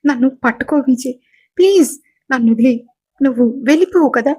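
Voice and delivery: a scared wife clinging to her husband; gasping fearful plea to Vijay; panicked pleading. Acted. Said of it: "భయపడుతూ వణికిపోతుంది".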